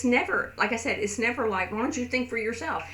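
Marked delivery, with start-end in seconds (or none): 1.7-2.8 accusing tone. Retold or imitated. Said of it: "It's not in that tone".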